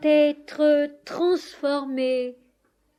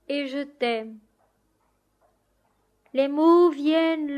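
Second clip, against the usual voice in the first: declaimed prayer in measured phrases; devotional poem reading. Acted. Soul on its knees before Seigneur, solemn poetic declamation. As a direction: recite it as an earnest poem to God, pausing between lines.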